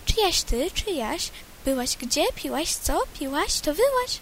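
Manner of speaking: a lightly voiced calling lapwing; lapwing calls. Lapwing calling across the meadow, lightly voiced. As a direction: call out like a nosy lapwing. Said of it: "Czajka woła".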